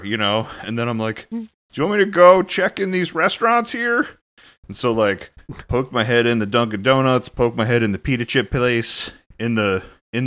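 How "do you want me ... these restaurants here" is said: mock helpful. Retold offer to help.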